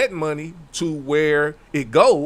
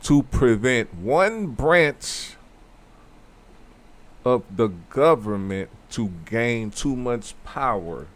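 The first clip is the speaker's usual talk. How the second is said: slow answer, word by word, for the back row; slow, emphatic; 3 semitones lower than usual. Shown as a demonstration. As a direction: lay it out slowly with deliberate pauses. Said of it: "slow for the people in the back and a little bit louder".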